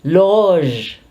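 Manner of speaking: LOGE held long, closing on a ZH sound; loge pronunciation. Shown as a demonstration. Teacher leads the class in saying it, long loge with ZH. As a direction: draw out "loge" as one syllable ending ZH. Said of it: "So let's pronounce it".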